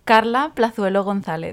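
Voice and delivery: "Carla Plazuelo González" said the Spanish way, rolled r; "González" with Spanish vowels and stress on -zá-; Spanish pronunciation. Real, not acted. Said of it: "do you wanna pronounce your full name in your beautiful Spanish accent".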